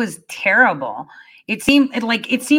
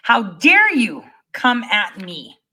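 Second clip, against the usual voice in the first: angry tirade; 2 semitones higher, slower than usual. Retold or imitated. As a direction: drag out each how dare you. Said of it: "this exertion of anger".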